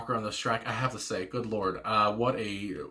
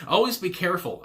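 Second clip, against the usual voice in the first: laughing; 6 semitones higher than usual. Real, not acted. Laughs while quoting lyric.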